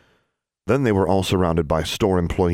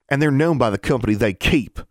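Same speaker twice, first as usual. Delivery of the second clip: higher, pointed comeback; sharp retort; 6 semitones higher than usual. A narrator's reading. Ozarker boy answers David's protest, sharp raised retort. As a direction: retort with righteous disapproval. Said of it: "retorted the Ozarker".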